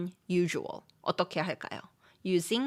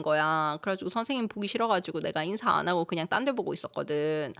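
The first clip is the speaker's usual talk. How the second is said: very fast chat with friends; quick, informal storytelling to a close friend; fast casual speech; much faster than usual. Shown as a demonstration. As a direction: rattle it off in casual Gyeongsang dialect. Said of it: "Do you wanna hear how I talk with my friends?".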